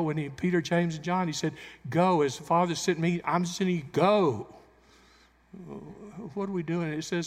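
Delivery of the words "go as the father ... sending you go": a loud charge of "Go"; commanding Jesus. Acted. Jesus sending Peter, James and John, loud command. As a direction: send them out with force.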